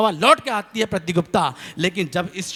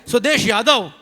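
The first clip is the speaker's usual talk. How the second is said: calling out a name; 3 semitones higher, 4 dB louder than usual. Retold or imitated. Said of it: "आवाज़ लगाई".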